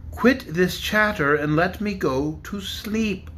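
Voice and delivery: slow, grumbling protest; a touch of sleepy irritation; drowsy dragon protesting the chatter. Acted. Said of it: "protested another dragon".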